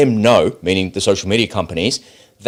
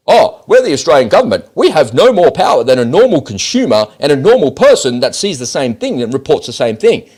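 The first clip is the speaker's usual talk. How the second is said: louder, higher sneering send-up of an official; mocking bureaucrat; 4 semitones higher, 3 dB louder than usual. The host mocks government bureaucrats to his viewers, loud and sneering. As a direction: parody their smug excuse with a raised, scornful voice. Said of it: "they take us for fools by saying to us that".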